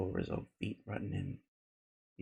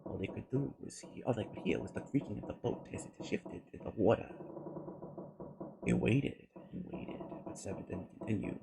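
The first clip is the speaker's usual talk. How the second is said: hushed narration; 10 dB quieter than usual. Acted. Leise Erzählung, Stille.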